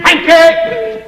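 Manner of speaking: very high barked command; loud imperious shout; shouted order. Acted. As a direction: snap the order out. Barking order to servant.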